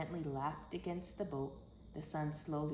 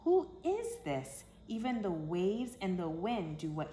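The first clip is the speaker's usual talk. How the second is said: stunned disbelief; wide-eyed amazement; awed gasp. Acted. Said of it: "they asked each other".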